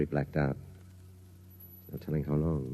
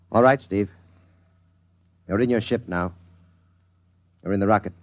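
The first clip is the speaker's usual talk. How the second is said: loud, higher, pressing command; insistent hypnotic suggestion; 5 semitones higher, 6 dB louder than usual. Acted. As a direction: drive the suggestion into his mind. Hypnotist pushes his suggestion.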